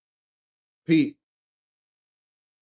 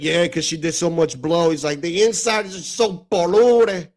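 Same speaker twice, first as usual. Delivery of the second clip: put-on Cuban accent; 2 semitones higher than usual. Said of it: "with the accent".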